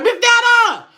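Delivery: high, loud delighted callout; excited caller recognizing. Retold or imitated. Caller spotting the famous host, delighted callout. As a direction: call out her name like a starstruck fan. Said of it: "they be like".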